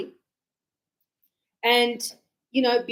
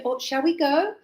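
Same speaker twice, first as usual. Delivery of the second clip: offer, don't push; gentle invitation; 3 semitones higher than usual. Shown as a demonstration. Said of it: "I'm not asking you".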